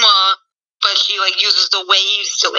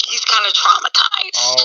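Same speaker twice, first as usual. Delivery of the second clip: whisper. Real, not acted. Whispered aside.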